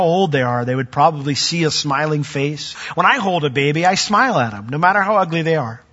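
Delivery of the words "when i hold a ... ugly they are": higher, louder and beaming; light up as you picture the baby; bright and cheerful. Shown as a demonstration. Cheerful first take about babies.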